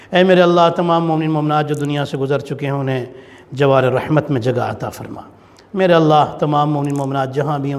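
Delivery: steady earnest supplication voice; lightly intoned closing prayer; dua leading. Acted. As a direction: plead with God for the congregation.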